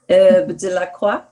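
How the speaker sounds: careful French pronunciation of herbe de la croix; French accent. Shown as a demonstration. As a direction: say it in a French accent, a bit self-conscious. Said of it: "you can keep heckling at my French accent".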